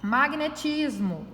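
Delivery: "Magnetismo" slowly, leaning on TIS; stress on penultimate syllable. Shown as a demonstration. Teacher showing the strong syllable, "Magnetismo" stressed on the penultimate. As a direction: stretch the second-to-last syllable of "Magnetismo". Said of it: "a sílaba mais forte dela é a penúltima".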